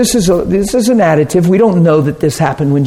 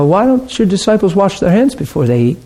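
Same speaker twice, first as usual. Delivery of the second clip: higher, fault-finding question with mock fussiness; nitpicking; 5 semitones higher than usual. Pharisees question Jesus about his disciples, nitpicking. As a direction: pick at a petty fault, pitched up. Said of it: "they're nitpicking, they're finding fault".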